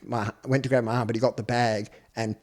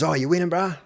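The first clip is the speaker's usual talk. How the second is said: friendly stranger; 6 semitones higher, 4 dB louder than usual. Retold or imitated. Adult stranger chats up kid.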